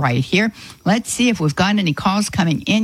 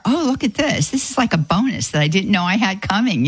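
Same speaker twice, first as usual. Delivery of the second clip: delighted surprise; 2 semitones higher than usual. Pretend. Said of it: "two ways that we can look at it".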